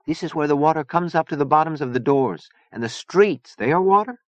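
put-on high, accented voice rising to a question; fiery Zona, wondering. A narrator's reading. Zona marvelling at watery Venice, wondering. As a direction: puzzle over it in wonder.

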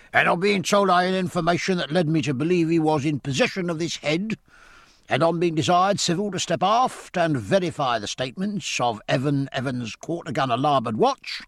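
a master-at-arms reading out charges; hoarse official. Acted. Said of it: "said the master-at-arms".

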